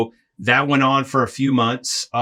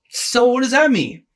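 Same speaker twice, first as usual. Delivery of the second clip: panicked; 12 semitones higher, 3 dB louder than usual. Retold or imitated. Panicked question to Bill.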